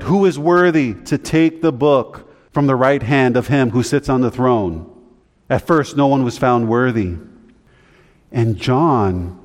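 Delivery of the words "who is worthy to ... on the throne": louder, higher declaration; lightly acted angelic announcement; angel's proclamation. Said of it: "an angel pronounced and declared".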